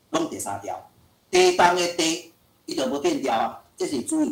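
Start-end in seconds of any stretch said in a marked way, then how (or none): 1.3-2.3 地动的地 read slowly, word by word; slow spelled-out reading. Shown as a demonstration. Teacher dictating 地 slowly to the class. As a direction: dictate 地动的地 clearly for a child.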